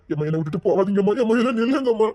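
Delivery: urgent begging; pleading. Acted. Son begs his mother not to leave him, pleading. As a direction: beg her to stay.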